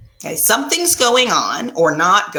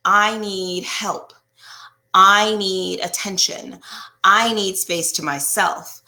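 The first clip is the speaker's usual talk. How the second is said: calm need statements; slower than usual. Shown as a demonstration. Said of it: "But if I say".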